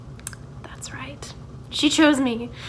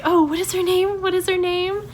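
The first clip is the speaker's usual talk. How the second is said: higher, mock-teacher singsong; 7 semitones higher, 3 dB louder than usual. Student mimicking the teacher who forgot the name, higher mocking voice.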